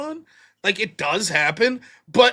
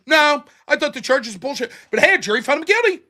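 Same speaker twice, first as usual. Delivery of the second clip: mock smug pundit; 4 semitones higher, 4 dB louder than usual. Mimicking hypocritical pundit.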